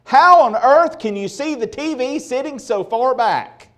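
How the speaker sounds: a playful hint of a scolding mother; mock mom voice. Preacher voicing an imagined mom to the congregation, mock scolding. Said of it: "Mom would never say".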